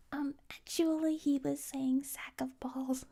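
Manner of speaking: a nerdy um actually, dead serious; a straight-faced correction; mock pedantic. Mocking the commenter who corrects the slang, pedantic. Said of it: "saying, seriously, with a straight face".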